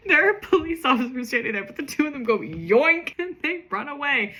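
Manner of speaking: tickled, laughing narration; laughing retelling. Real, not acted. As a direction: read it through real laughter. Laughing at her own old story.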